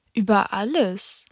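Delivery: matter-of-fact. Acted. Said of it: "mit großer Einfachheit".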